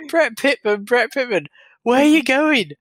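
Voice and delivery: hammed-up manager bellowing at his player; mock touchline shout. Fan imitating a manager yelling at his striker. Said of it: "he shouts".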